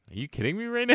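high-pitched incredulous quote; mock disbelief. Co-host voicing the host's reaction to the book, mock incredulous. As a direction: squeak it out, imitating an appalled reader. Acting out reader's quick disbelief.

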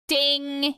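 imitated ding. Shown as a demonstration. Host marking a right answer in a quiz, imitated ding. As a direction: sound out a quiz bell. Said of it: "make a ding thing".

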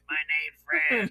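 low raspy smoker's voice. Shown as a demonstration. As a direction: rasp it like a heavy smoker. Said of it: "Like smoker's voice".

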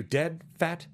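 imitating a staccato delivery, word by word; deliberate staccato line reading. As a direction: separate each word, pausing before the last. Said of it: "how he does this staccato thing there".

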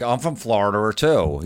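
slow, "Florida" ending in -er. Acted. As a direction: say "Florida" as "Florder", drawn out. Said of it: "we have the R's".

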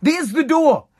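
a mock dad throwing the kid out; angry dad voice. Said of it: "like my dad would say".

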